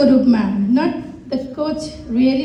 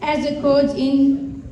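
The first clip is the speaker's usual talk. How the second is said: reading a prepared speech; much slower than usual. Acted. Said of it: "पढेर सुनाउने छु".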